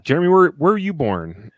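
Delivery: lightly voiced grown-up asking a child; a hint of a relative quizzing a little kid. Family quizzing four-year-old at a gathering, light grown-up voice.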